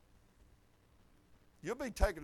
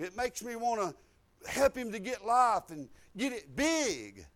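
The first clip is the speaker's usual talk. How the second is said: impassioned preaching; 6 semitones higher, 8 dB louder than usual. Acted. Preaches with rising force.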